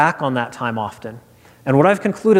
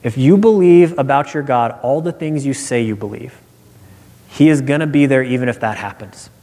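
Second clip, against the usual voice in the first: calm; 3 semitones lower than usual. Retold or imitated. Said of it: "he would have just calmly said".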